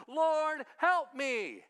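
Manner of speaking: loud, high cry for help; begging shout from the crowd; shouting plea. Acted. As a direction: call out to the Lord, desperate.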